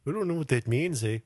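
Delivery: lightly voiced clueless Canadian; hint of a baffled Canadian, tagged with eh; mock Canadian. Co-host as a Canadian confused by the word bilingual, mock-baffled. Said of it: "exactly what those Canadians would think".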